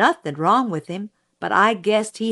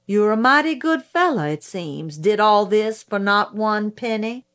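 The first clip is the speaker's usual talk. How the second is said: slightly raised, mildly sardonic prosecutor voice; 3 semitones higher than usual. Acted. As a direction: lightly voice a needling cross-examiner. Prosecutor questions witness.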